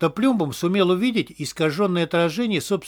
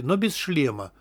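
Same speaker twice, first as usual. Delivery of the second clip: ordinary delivery, nothing marked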